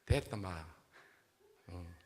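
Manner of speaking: put-on Gyeongsang accent groom. Gyeongsang husband refuses his bride, brusque Gyeongsang accent. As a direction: shut her down in Gyeongsang dialect. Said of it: "경상도 남자가".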